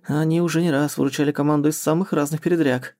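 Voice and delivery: ordinary delivery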